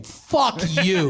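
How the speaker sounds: inner curse. Retold or imitated. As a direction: spit it at him in your head, half laughing.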